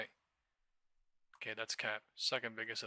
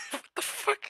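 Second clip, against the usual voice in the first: squeaky laughing what the fuck, much higher; laughing disbelief; 7 dB louder than usual. Real, not acted. Trader laughing at a sudden jump in his account. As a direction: laugh it out in shock.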